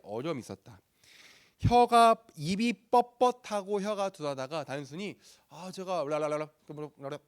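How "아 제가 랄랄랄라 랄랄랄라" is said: mock babbling. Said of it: "이렇게 풀리는 문제가 아니라".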